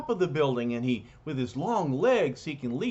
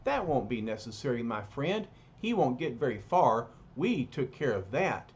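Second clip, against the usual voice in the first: calm. Acted. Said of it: "very calmly says".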